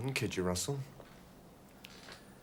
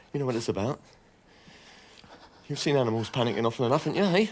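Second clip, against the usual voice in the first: goading taunt; 2 semitones higher, 4 dB louder, faster than usual. Acted. Goading the gunman.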